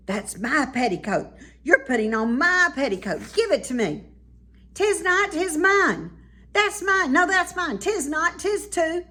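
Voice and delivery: put-on high, loud childish bickering; squabbling child. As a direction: snap back and forth over the petticoat. Twins quarreling over petticoat.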